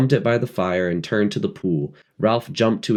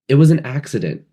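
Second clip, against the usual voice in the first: high, loud blurt; sudden; 7 semitones higher, 5 dB louder, faster than usual. A narrator's reading. Piggy blurting to Ralph, high and loud. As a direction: burst out with it. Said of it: "said Piggy suddenly".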